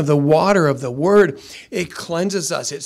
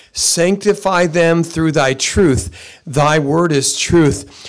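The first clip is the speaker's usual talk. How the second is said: slow solemn scripture reading; 4 dB louder, much slower than usual. Real, not acted.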